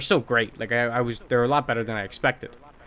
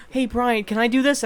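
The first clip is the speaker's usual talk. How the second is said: mocking high coworker voice; 10 semitones higher than usual. Coworkers asking to take spot.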